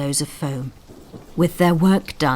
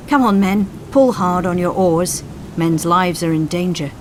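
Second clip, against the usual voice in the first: raised voice, pressing the crew; urgent shout; 2 semitones higher, 5 dB louder than usual. Acted. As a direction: drive the men to row harder. Coxswain urging crew in storm.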